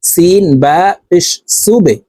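slow spelling, "সুবে" ending on a bounced b; qalqalah bounce. Shown as a demonstration. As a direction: push the ba down and let it echo in "সুবে". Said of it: "ধাক্কা দিয়ে উচ্চারণ করব". ("সুবে"-র বা ধাক্কা দিয়ে)

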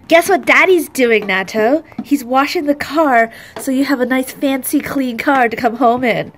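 mother telling her unborn son about Daddy. Real, not acted. Talks to unborn baby Nato.

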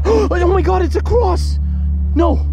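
high, loud, thrilled cries; excited shouting. Real, not acted. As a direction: yell in disbelief at the find. Finding a cross in a tree.

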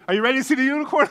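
put-on high, loud, fast child voice; excited little daughter. Preacher imitating his daughter teasing a surprise, excited. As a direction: imitate a kid rushing to the surprise. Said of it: "She said".

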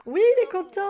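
high, loud cry of joy; delighted cheer. Real, not acted. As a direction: celebrate good news at full voice. Happy news in the game.

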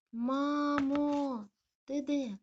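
high, loud call for mum; anxious call. Acted. Lost puppy calling out for mum, anxious. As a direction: cry out where is mum.

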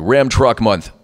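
big, drawn-out ad announcer; radio ad read. Shown as a demonstration. Voice actor recalls a truck spot, radio ad read. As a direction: announce it slowly like a truck commercial. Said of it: "the radio ones are always the worst".

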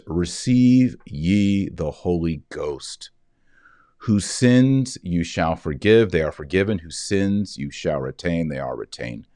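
slow, grave voice of Christ; solemn Jesus. Acted. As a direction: pronounce it slowly like a blessing. Voicing Jesus giving the Spirit.

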